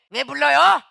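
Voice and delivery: loud, sullen snap; loud irritated comeback; irritable retort. Retold or imitated. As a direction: bark back, annoyed at being called. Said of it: "신경질적으로 많이 나와".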